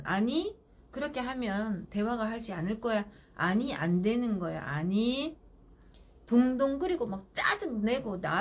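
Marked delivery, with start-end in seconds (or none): 0.0-5.4 firm, no emotion. Shown as a demonstration. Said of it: "엄마는".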